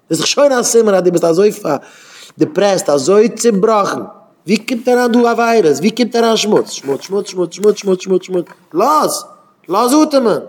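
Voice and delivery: high-pitched, heated rant; exasperated rant. Real, not acted. Speaker rails at filth creeping in everywhere, exasperated outcry. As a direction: pile it up in a high, pleading outcry.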